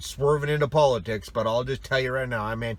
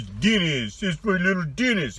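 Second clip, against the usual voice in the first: doting Russian dad; 7 semitones higher than usual. Retold or imitated. Michael voiced proudly about son.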